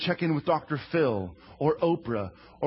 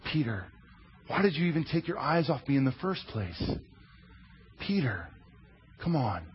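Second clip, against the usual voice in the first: compassionate; 2 semitones lower, 4 dB quieter than usual. Acted. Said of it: "asked in compassion and care".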